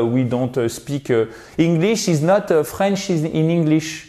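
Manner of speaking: hammed-up French accent in English; halting English with a heavy French accent; mock French accent. Shown as a demonstration. Teacher imitating French learners speaking English, mock French accent.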